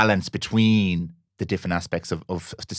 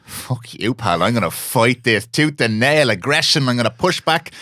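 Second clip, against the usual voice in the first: aggressive pushback; 4 semitones higher, slower than usual. Retold or imitated. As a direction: bristle and push back hard. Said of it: "my initial reaction is".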